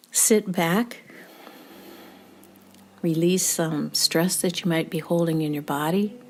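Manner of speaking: measured meditation guide with long pauses; even, unhurried instructions with room to breathe between them; guided meditation. Real, not acted. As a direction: lead listeners into rest, phrase by phrase.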